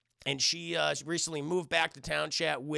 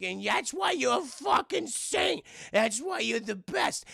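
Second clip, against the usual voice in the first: higher, slow, drawn-out gushing; gushing praise; 5 semitones higher, slower than usual. Acted. Jennifer praising Whitey for his sacrifice, gushing. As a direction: stretch it out with mock adoration.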